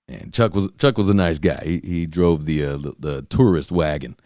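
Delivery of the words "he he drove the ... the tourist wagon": ordinary talk, nothing marked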